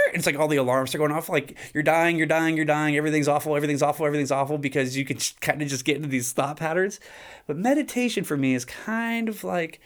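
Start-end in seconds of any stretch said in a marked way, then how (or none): 1.7-4.6 mock panicky racing thoughts; panicked inner voice. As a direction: rattle off the alarms of your own anxiety. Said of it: "It goes".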